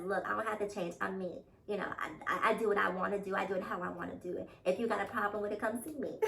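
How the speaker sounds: tough New York swagger voice; New York accent. Acted. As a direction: quote it like a tough New Yorker. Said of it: "a man ... stands up and says".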